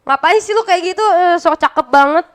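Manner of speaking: mock scolding of a friend. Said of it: "Gua marahin lah".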